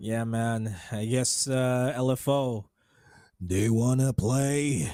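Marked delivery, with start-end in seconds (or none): 1.9-4.9 heated, angry voice, leaning on drawn-out "play". Talking about how a team will play, doing a Chamber impression. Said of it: "that's my best chamber impression".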